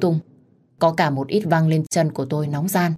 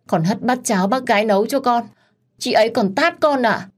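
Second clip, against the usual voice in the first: higher, plaintive victim voice; trembling voice; 4 semitones higher than usual. Acted. Hạ tells the in-laws Lam hit her, trembling voice. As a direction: play the wronged victim. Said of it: "giọng run rẩy".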